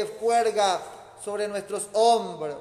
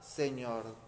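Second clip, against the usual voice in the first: cry out; 6 semitones lower, slower than usual. Shown as a demonstration. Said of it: "perseverante es gritarle a Jesús".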